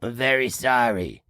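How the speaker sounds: low, solemn apology; formal apology. Acted. Host owning up to viewers, low formal apology. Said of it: "a formal apology".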